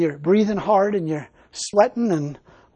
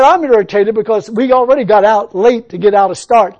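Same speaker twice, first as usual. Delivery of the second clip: mock irritated complaint; 3 semitones higher, 12 dB louder than usual. Pastor's retold complaint.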